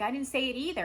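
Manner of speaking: high, loud defensive retort. Acted. Arguing back over who said what, defensive. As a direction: throw the denial straight back, loudly. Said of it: "You're defensive".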